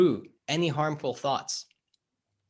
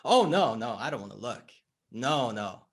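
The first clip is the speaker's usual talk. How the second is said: acted reluctant client; faster than usual. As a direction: brush it off and back away. Client refusing to look inside.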